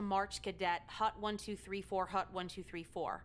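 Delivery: barked marching cadence; drill sergeant. Acted. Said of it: "It's like a drill sergeant".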